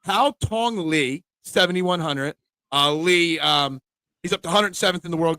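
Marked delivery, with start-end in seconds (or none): 0.0-1.2 Hao Tong Lee, very slowly; careful pronunciation of Hao Tong Lee. Shown as a demonstration. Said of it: "we'll see if I pronounce them right".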